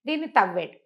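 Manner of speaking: usual speaking voice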